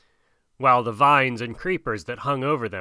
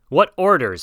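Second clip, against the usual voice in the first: a breathless question pushed a little higher; panting; 5 semitones higher, 5 dB louder than usual. A narrator's reading. Wolf Akela asks Mowgli for orders while running, panting. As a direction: ask it mid-run, short of breath. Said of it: "panted Akela".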